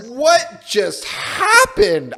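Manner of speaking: slow, high, laughing disbelief; baffled. Retold or imitated. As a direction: ask it totally lost and amused. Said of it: "And you're like".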